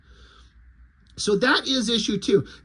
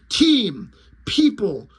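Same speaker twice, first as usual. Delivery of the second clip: exasperated broken alien speech, louder on group; frustrated alien; 3 dB louder, much slower than usual. Retold or imitated. Lizard guy exasperated at Popo, broken speech. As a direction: lizard groping for words, slow and annoyed. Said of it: "He's like".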